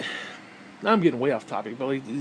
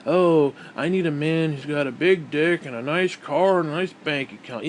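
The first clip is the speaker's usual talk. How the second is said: demanding dater. Retold or imitated. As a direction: imitate a picky dater, dragging the words. Mimicking women's dating profile demands.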